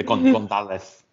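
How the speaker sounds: lightly put-on Spanish accent; a touch of Spanish accent on the surname. Shown as a demonstration. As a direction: say the name with a Castilian Spanish lisped z. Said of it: "is that your Spanish voice?".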